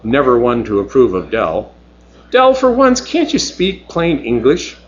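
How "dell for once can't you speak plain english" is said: Mavis. Acted. Mavis scolding Dell.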